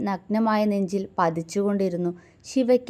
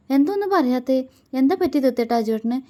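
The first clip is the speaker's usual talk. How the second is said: higher, anxious pleading questions; worried wife pressing for answers; 5 semitones higher, 3 dB louder, faster than usual. Acted. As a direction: press him anxiously for news. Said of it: "ആകുലതയോടെ ചോദിച്ചു".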